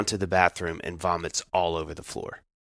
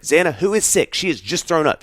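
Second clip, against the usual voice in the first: incredulous; 8 semitones higher than usual. Retold or imitated. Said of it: "I can't help it".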